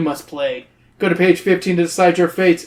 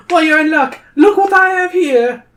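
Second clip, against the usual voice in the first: sly troll; 12 semitones higher, 7 dB louder than usual. Acted. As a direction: tempt them like a greedy little troll. Troll Crombie voiced by reader.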